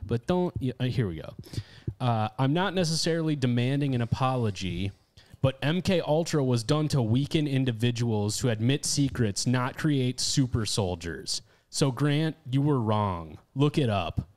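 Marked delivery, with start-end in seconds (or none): 2.4-14.3 pointed, combative letter reading; hostile read. Real, not acted. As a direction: read it out as a firm rebuttal. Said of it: "very, very hostile and combative".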